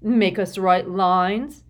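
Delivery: slow smug taunt; smirking. A narrator's reading. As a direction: tease with a smirk.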